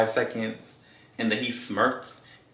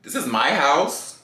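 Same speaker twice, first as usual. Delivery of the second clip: serious, bucking up; 4 semitones higher, 3 dB louder than usual. Retold or imitated. Woman ordering date out of her house, dead serious. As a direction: lay down the law, stretching the words. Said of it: "he saw I was serious".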